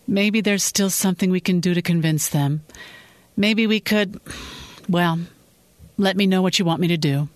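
lightly voiced Rosie breaking bad news gently; Rosie, sympathetic coworker. Coworker on voicemail delivers bad news, lightly voiced and sympathetic.

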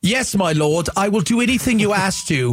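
lightly voiced obedient servant; Renaissance impression. Co-host showing callers an example, lightly voiced Renaissance servant. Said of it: "your best impression".

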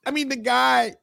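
fighting back laughter; trying not to crack up; stifled giggles. Real, not acted. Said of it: "And I'm trying not to laugh though".

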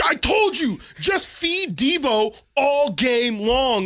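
high smug drawn-out told-you-so; know-it-all fan. Retold or imitated. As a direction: lecture like the fantasy football guy. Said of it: "I hate dude who's just like".

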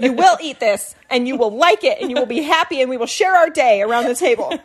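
mildly mock-stern mom decree; insistent mother. Mother ordering the family to enjoy dinner together, lightly mock-stern. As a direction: lightly lay down the law, playfully.

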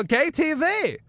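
high-pitched camp Austrian reply; gay Austrian character. Retold or imitated. Bruno answering the baffled wrestler, high camp voice. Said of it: "the gay character".

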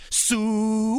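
loud high hog call. Retold or imitated. Hog caller calls to the arena crowd with a loud high hog call. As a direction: bellow it like a farmer calling pigs. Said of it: "He does the full-on hog call".

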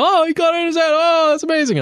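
high, excited fan voice; mock crowd cheering. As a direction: gush like an impressed crowd in the stands. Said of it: "everyone cheers in the section".

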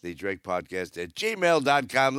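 slow and deliberate address read; careful slow dictation; slow, spelled out. Shown as a demonstration. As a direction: read it slowly so they can write it down. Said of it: "email for the podcast is".

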